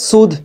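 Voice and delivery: সুদ closing on an aspirated d; aspirated ending. Shown as a demonstration. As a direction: join a puff of h to the last d of সুদ. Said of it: "তার সাথে মিলিয়ে আমরা উচ্চারণটা করব". (সুদ, শেষে হা মিলিয়ে)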